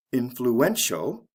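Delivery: Influential with the push on the third syllable, slow; slow, careful Influential; stress before the ending. Shown as a demonstration. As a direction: stretch out Influential, leaning on the "en". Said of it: "the stress comes right before the ending".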